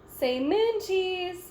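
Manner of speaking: slow, drawn-out say moon cheese; drawn-out photo call. A narrator's reading. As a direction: stretch it like a photographer's cue. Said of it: "Miss Rabbit says".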